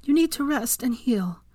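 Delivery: gently coaxing, lifted voice; tender. A narrator's reading. Lover soothing injured man.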